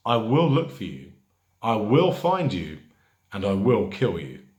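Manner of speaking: acted film threat, firm and emphatic; mildly angry threat. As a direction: lay down a mock ultimatum, punching the key words. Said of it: "That's not an angry teacher".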